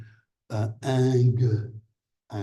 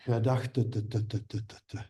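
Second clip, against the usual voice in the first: stuttering demo; faster than usual. Shown as a demonstration. Teacher imitates a learner's word-final stutter. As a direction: repeat the final t, trailing off. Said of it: "word final stuttering".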